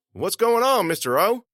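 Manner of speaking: high, urgent student question; worried questioning. Acted. Student to vice principal in the hall, worried questioning. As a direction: ask it high, wanting answers.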